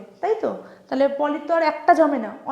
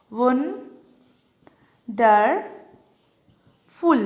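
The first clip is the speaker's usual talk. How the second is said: "ওয়ান্ডারফুল" very slowly, long pauses between three syllables; much slower than usual. Shown as a demonstration. Teacher showing how wonderful breaks up, syllable by syllable. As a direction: isolate each syllable of "ওয়ান্ডারফুল". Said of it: "আমি ভেঙে দেখাই".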